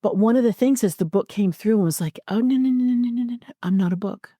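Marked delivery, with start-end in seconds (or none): 2.3-4.3 rapid-fire run of high no's, then settle down; emphatic brush-off. Retold or imitated. Book correcting its author, rapid dismissive denial. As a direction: dismiss it in a quick, pitched-up monotone stream.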